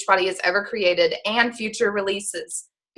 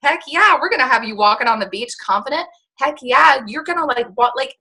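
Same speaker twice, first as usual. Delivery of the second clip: high, loud and fast cheering; hyped coach cheering them on; fired up; 4 semitones higher, 3 dB louder than usual. Pretend. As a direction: pump the client up with excitement. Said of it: "you get fired up and you're like".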